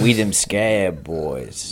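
slow, laughing tough-guy line; slow, laughing put-on tough guy; laughing mock gang talk. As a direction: drawl it through a laugh like a goofy gang member.

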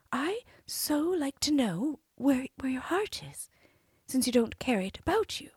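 high, sweet princess voice; cartoon princess. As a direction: play the innocent princess. Princess coaxing the giant.

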